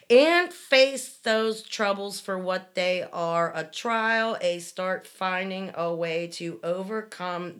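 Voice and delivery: loud slow preacher rant without a pause; all in one breath. Retold or imitated. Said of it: "turning red in the face 'cause you need to breathe".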